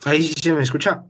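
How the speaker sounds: choppy, fast, bad network; testing a shaky connection; glitching audio. Real, not acted. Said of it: "me salió una alerta de insuficiencia de red". (audio entrecortado)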